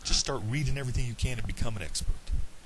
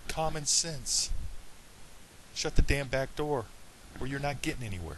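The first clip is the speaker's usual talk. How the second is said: emotional; 3 semitones higher than usual. Real, not acted. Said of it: "I'm getting a little emotional".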